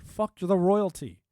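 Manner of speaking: a loud, slow, defiant yell of fuck the royalty; mock founding-father shout. Mocking the forefathers rejecting the king, slow loud shout. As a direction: bellow it slowly like a rebel colonist. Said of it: "it's like".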